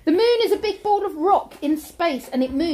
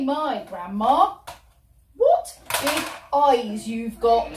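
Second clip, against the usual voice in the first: put-on slow wondering girl; 5 semitones lower, slower than usual. Girl's famous line, slow.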